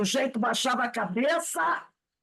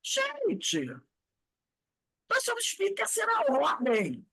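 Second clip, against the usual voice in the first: mock lament; 10 semitones higher than usual. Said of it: "Eu só ficava".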